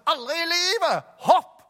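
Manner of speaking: high, loud panicked cry; panicked refusal. Retold or imitated. Hanging man refusing rescuers, high panicked shout. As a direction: scream back in terror, then bark jump. Quoted exchange at cliff.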